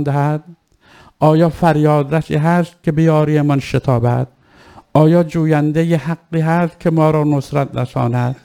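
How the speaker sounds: steady, solemn recital of the Ashura story; maqtal narration. Acted. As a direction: narrate the grief-filled scene with measured gravity. (روایت مقتل با لحن سوگوارانه و آرام)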